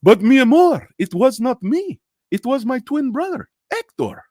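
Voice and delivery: high, hammed-up Spanish-accented pleading; telenovela lover. Pleading with his lover in a telenovela, melodramatic. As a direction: plead like a soap-opera star caught cheating. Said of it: "telenovelas on Spanish, uh, T V".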